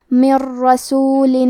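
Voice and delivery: من رسول slow, the ن merged into a doubled ر with no nasal hum; idgham without ghunna. Shown as a demonstration. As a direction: roll the ن straight into رسول. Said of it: "بغیر غنہ سے لیکن تشدید کے ساتھ". (نون کا را میں ادغام بغیر غنہ)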